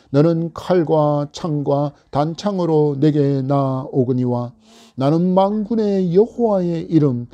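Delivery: scripture reading. Shown as a demonstration. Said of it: "사십오 절의 말씀입니다".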